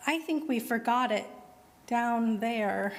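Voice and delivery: plain reading voice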